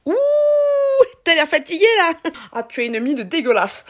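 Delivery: aigu et fort, franc-parler du Sud; Marseille accent. Pretend. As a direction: balance la vanne à la marseillaise. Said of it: "la sincérité marseillaise". (accent marseillais franc)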